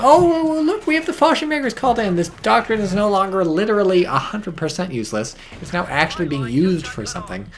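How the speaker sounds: high, loud, fast mock excitement; mock Rangers voice. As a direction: play the smug Rangers gushing. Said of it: "just Rangers generally know".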